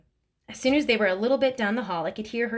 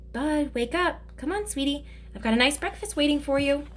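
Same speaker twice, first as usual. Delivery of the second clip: soft; 6 semitones higher than usual. Acted. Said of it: "She said real soft".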